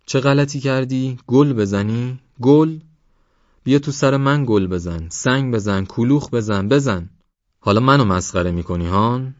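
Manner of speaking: father exploding at his son; furious yelling. Acted. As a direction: rage at the boy, peaking on گل.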